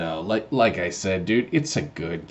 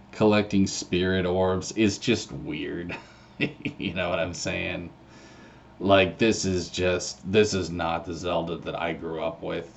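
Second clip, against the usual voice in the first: half asleep. Real, not acted. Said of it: "Sorry, guys, I'm half asleep".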